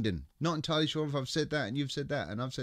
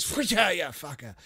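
imitated scrolling noise. Host mimicking the chat jumping as he scrolls, mock whoosh. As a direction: act out the screen suddenly shooting off, then drop away. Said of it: "and then it goes".

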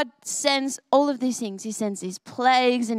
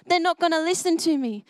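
nervous Moses; 5 semitones higher than usual. Retold or imitated. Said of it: "I'm too nervous".

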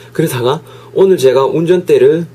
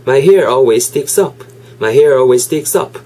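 slow, careful teacher's model read; slow model sentence; much slower than usual. Shown as a demonstration. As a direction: say each word slowly and clearly. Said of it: "이렇게 발음 팁 잡아가시면서".

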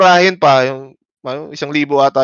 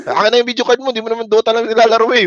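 teasing demand; 7 semitones higher, faster than usual. Retold or imitated.

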